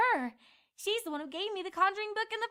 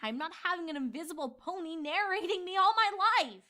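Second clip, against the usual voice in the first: grumbling. Acted. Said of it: "Twilight grumbled".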